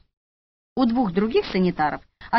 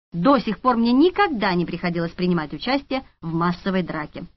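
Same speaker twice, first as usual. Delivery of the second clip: ordinary delivery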